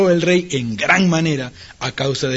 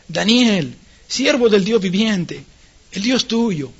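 mildly plaintive, drawn-out call; sorrowful calling; 2 semitones higher, slower than usual. Acted. King Darío calls Daniel at the pit, mildly sorrowful. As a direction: call with a touch of grief. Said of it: "llamó a voces a Daniel con voz triste".

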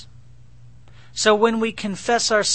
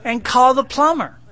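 laughing; 6 semitones higher, 7 dB louder than usual. Real, not acted. Punchline about calling the plumber.

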